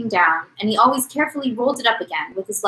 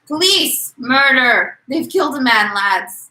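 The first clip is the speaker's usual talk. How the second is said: raised cry for help, only lightly tearful; tearful shout; 4 semitones higher, 4 dB louder, slower than usual. Acted. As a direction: call out in alarm with a touch of tears. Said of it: "shouted in a tearful voice".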